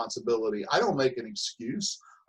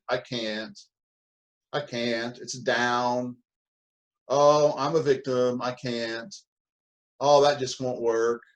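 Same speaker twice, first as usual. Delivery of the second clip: defeated victim tone; slower than usual. Shown as a demonstration. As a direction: sound like you've already given up. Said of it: "hear the tone of voice that goes with that".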